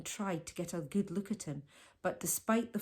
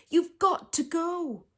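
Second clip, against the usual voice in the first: slow, higher, pressing plea; desperate plea; 9 semitones higher, 5 dB louder than usual. A narrator's reading. Martine still begging Jemmy to go, slow high plea. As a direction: draw the words out, begging. Pleading with the giraffe.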